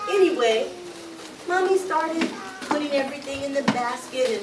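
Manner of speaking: ordinary delivery, nothing marked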